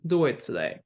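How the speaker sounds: "today" goes down at the end; plain command, falling on "today"; falling intonation. Shown as a demonstration. Teacher repeats the command example, falling intonation. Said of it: "It just goes down".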